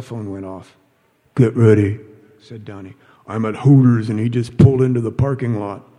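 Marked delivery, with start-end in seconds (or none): 1.3-5.9 urgent call. Acted. Donnie on phone, urgent.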